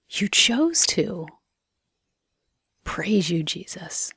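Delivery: unhurried prayer with long pauses; guided prayer. Real, not acted. Speaking to Jesus about his touch, reflective prayer. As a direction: pray it gently, leaving space between phrases.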